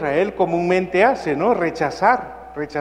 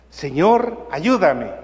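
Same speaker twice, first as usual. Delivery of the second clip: anguished cry; slower than usual. Acted. Anguished mother cries to Jesus for help. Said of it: "que grita".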